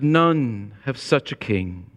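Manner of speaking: slow reverent quote. Retold or imitated. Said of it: "As J C Ryle said".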